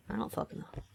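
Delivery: whispered, exasperated; frustrated whisper. Real, not acted. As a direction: hiss it out, fed up. Frustrated at the geography puzzle.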